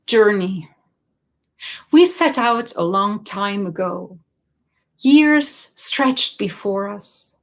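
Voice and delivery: measured verse recital; poem reading. Acted. Poet reads from the wintry poems, measured poem reading. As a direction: announce the title, then give each line room with pauses.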